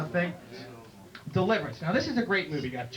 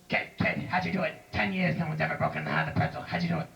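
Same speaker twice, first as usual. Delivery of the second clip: tough wrestling manager. Acted. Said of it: "He was tough. He was mean".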